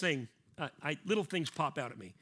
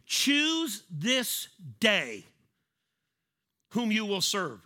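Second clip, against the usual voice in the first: proclaiming Joshua; 6 dB louder, much slower than usual. Retold or imitated. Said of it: "Joshua said to the people".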